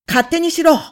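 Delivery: high, loud, cracking yell; strained shout. A narrator's reading. Husband yelling at the visitors, strained. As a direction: yell it with the voice going up. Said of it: "と叫ぶ夫の声はすでに上ずって".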